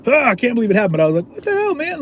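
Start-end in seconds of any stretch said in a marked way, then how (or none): 0.1-1.0 high, exaggerated gasp of disbelief; hammed-up high astonishment; mock shock. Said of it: "I wasn't like". 1.3-2.0 very high-pitched retold protest; high, incredulous complaint; indignant disbelief. Repeats his indignant reaction.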